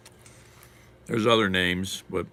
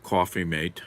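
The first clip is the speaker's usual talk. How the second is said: lightly put-on British accent; British accent attempt. Shown as a demonstration. Streamer tries a viewer's phrase, British accent. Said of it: "can I say that in a British accent".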